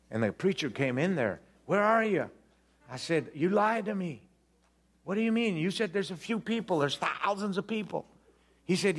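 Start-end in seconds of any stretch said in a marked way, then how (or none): 1.6-2.3 high-pitched searching call; mock higher-pitched preacher. Preacher calls out in retold scene. 3.3-8.0 high-pitched mock outrage; retold indignant complaint, pitched up; indignant accusation. Acted quarrel with the preacher.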